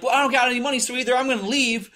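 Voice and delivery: high, agitated scammer impression; mock freaking out. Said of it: "he's, like, all freaking out".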